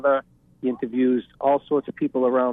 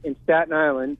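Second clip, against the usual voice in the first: yelling over helicopter; 4 semitones higher than usual. Real, not acted. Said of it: "sorry about the helicopter going by here".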